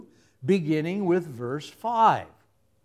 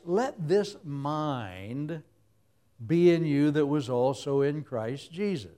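slow scripture reading; slower than usual. Acted.

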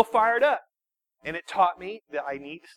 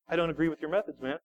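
calm friend; 5 semitones lower, 7 dB quieter, faster than usual. Retold or imitated. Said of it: "more calm he got".

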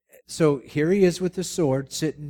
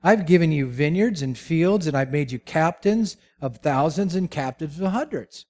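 Saul boasting; 3 semitones higher than usual. Acted. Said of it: "he said".

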